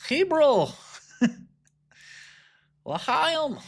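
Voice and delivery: put-on very high, comic Jewish accent; mock Jewish accent. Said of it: "I make the Jewish accent all the time".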